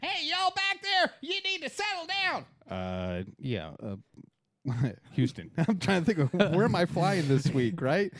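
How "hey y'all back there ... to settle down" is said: pilot cockpit headset. Shown as a demonstration. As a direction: talk to the cabin over the radio. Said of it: "This is the way I sound like on the radio".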